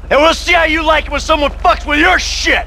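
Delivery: angry shout. Acted. Threat before wrecking house.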